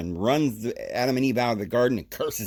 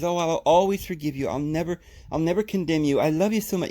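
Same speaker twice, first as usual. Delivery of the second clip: higher-pitched, lightly acted loving voice; gushing forgiveness, acted out in a raised pitch; imagined loving God; 6 semitones higher than usual. Imagined God promising to always forgive, lightly acted as loving. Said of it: "loving, wonderful".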